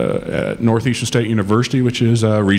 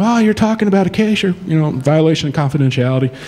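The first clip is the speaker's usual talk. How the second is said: mock indignant lawyer; 9 semitones higher, faster than usual. Attorneys objecting, mock quote.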